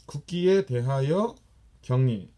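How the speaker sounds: 국기에 대하여 quick and rising, then a loud 경례; command call. Shown as a demonstration. Instructor calling the class to salute the flag, command. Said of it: "Salute flag".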